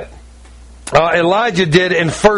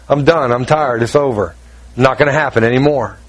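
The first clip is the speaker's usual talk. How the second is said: weary God; 7 semitones lower than usual. Acted. God voiced, low and final.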